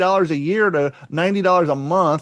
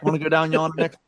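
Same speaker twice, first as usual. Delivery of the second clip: put-on Appalachian accent; faster than usual. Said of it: "I can do a hill".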